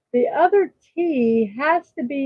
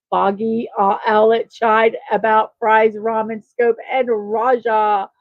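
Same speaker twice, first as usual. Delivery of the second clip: all in one breath. Real, not acted. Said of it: "Let's see if we can do 'em all in one breath".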